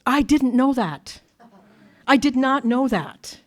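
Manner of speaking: slow, each word weighed, "not" spelled out; emphatic realization. Retold or imitated. Speaker hearing sponsor's advice afresh, slow emphatic realization. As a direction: stretch out "did not know that" with firm emphasis.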